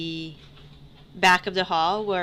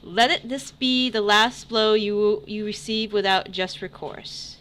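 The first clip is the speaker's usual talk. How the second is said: herald proclamation. Acted. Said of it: "he's the herald".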